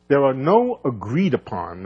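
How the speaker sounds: "agreed upon" given deliberate emphasis; stress on agreed upon. Real, not acted. Physicist telling colleagues there is no consensus, stressing "agreed upon". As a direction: lean on the words "agreed upon". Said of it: "I emphasize the word agreed upon".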